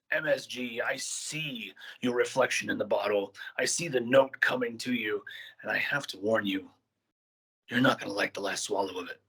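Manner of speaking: ominous in-character wrestling promo. Acted. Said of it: "the challenge is to cut a promo in character".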